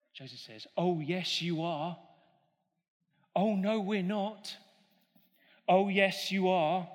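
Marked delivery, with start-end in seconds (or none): 5.7-6.9 pantomime villain's louder retort; egging on the crowd, louder; louder panto back-and-forth; louder panto call. Shown as a demonstration. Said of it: "pantomime call and response".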